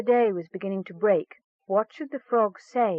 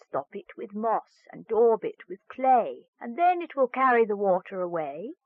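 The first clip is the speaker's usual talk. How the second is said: frog's charm; 3 semitones higher than usual. Acted. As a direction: intone the rhyme like a magic frog. Frog gives rhyming charm.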